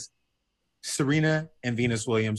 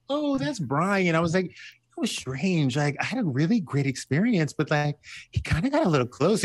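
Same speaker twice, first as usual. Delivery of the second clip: coy gossip voice; 4 semitones higher than usual. Retold or imitated.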